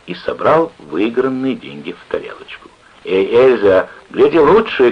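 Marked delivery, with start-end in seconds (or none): 3.0-4.9 raised, higher-pitched shout to the waitress; called out. A narrator's reading. Clerk to waitress about serving, calling out. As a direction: call across the room. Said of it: "крикнул он".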